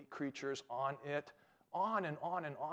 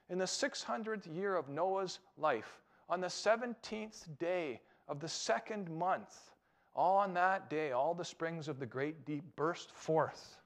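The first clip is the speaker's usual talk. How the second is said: slow scripture reading; 2 semitones higher, slower than usual. Shown as a demonstration. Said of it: "If you read over this".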